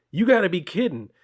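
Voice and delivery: can't believe what he hears; freaking out. Retold or imitated. Villain to the kid who refused him, outraged disbelief. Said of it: "Carnage freaks out".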